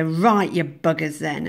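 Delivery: loud, playful mock defiance; ironic anger. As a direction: open loud like a knowing rebel. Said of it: "It's a kind of knowing, ironic anger".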